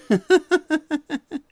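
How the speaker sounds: high, rapid run of chuckles; amused laugh. Real, not acted. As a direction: burst into giggles at your own joke. Laughs at night stalker remark.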